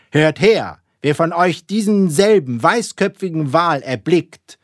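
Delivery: loud, high proclamation to the crew; captain's booming announcement. A narrator's reading. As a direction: call it out resoundingly across the deck. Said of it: "mit schallend erhobener Stimme rief er".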